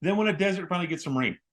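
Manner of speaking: high, loud, excited gushing; real excitement bursting out, pitch soaring; thrilled. Real, not acted. Host proudly introducing his wife and co-host, thrilled. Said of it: "I'm just so thrilled".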